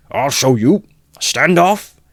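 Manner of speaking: high, loud furious scream; frantic scream. A narrator's reading. Mikolka warning the crowd away, frantic scream. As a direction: scream them back in a frenzy. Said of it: "Mikolka screamed frantically".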